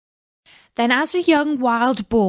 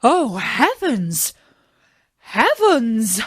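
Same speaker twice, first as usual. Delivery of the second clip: slow, louder amazed exclamation; astonished dwarfs; 4 dB louder, slower than usual. A narrator's reading. Dwarfs find Snow White asleep, astonished. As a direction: gasp it out in wonder. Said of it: "cried they".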